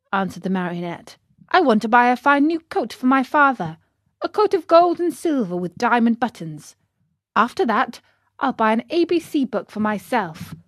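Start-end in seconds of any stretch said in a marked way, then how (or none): 1.5-10.5 lightly voiced puppet, listing plans eagerly; a touch of keen excitement; eager Pinocchio. Pinocchio telling the fox his plans, mildly eager.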